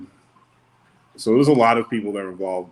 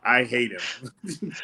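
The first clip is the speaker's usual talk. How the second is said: slow mock grudge; 2 semitones higher, 3 dB quieter, much slower than usual.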